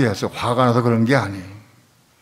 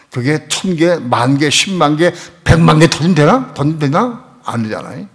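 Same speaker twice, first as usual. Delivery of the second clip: rising preaching build; 3 semitones higher, 4 dB louder than usual. Real, not acted. Preacher builds a rousing point.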